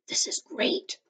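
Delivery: high excited whisper. Acted. Annie hiding in the cart with Jack, excited whisper. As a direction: breathe it out as a secret thrill. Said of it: "whispered Annie".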